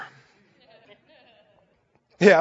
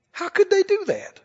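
self-righteous outrage, higher; 9 semitones higher, 3 dB quieter than usual. Retold or imitated. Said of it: "You'll hear it in things like this".

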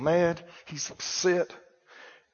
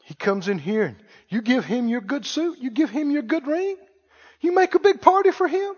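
hurt complaint; 3 semitones higher, 3 dB quieter than usual. Acted. Older son's complaint to father.

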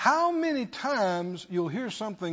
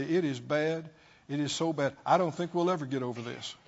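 mock gloomy lament; 5 semitones lower, 4 dB quieter than usual. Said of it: "When you say".

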